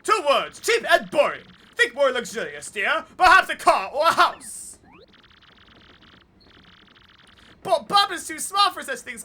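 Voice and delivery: high, loud snooty voice; snooty posh parent. Acted. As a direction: play the snooty rich parent. Voicing the posh Bob-omb parents.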